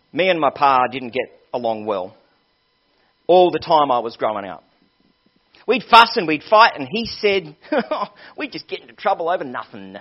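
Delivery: put-on young man's tale in a rough try at a Southern accent; attempted Southern US accent. Young man telling the preacher about his pa, attempted Southern accent. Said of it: "I can't do the accent".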